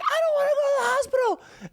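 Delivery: put-on high, whiny tearful kid voice; crying child voice. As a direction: beg not to go, like a sobbing child. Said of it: "He's like".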